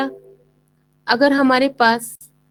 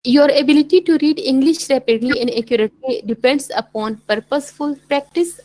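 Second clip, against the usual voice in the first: slow, deliberate English reading aloud; slow textbook reading; much slower than usual. Shown as a demonstration. Teacher reading the textbook passage aloud to students, slowly. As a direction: read the passage for the class, unhurried.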